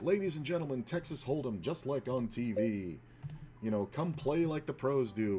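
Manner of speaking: high, showy barker's pitch to passers-by; carnival barker. Retold or imitated. Calling passers-by in to the poker tables, carnival barker voice. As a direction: sell it like a carnival barker out front. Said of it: "we would have to carnival bark".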